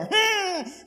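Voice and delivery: high, soft "mm"; small hammed-up squeal of dread; high hum of pretend fear; mock frightened whimper. Mock shudder at strong temper.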